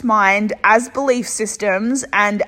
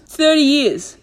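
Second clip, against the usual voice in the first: disbelief; 5 semitones higher than usual. Real, not acted. Repeated in disbelief.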